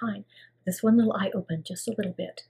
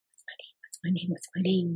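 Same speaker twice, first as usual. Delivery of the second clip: dazed self-talk; 3 dB quieter than usual. Retold or imitated. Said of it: "I remember saying to myself".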